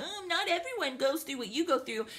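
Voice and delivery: mock the commenter's protest. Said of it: "asshole's gonna leave a comment saying".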